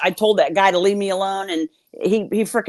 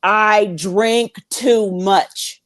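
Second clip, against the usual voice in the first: insisting; 2 semitones higher, much slower than usual. Retold or imitated. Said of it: "I keep telling them".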